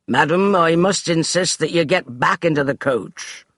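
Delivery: haughty butler voice; stiff declaration. Acted. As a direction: declare it with servant's pride. Finch voiced.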